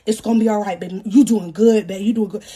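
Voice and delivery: imitating a low-voiced soothing partner; mock-coaching reassurance, pitched low; mock reassuring. Baby daddy reassuring her during delivery, mock reassuring. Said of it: "Y'all, he doing like this".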